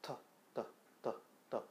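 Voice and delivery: 터 weakening toward a d; 터 gliding toward a light tap; softening t. Shown as a demonstration. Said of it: "힘을 조금씩 빼다 보면은".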